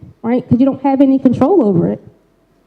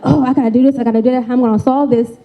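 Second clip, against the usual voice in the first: anxious racing thoughts; much faster than usual. Retold or imitated. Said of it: "in our head, like".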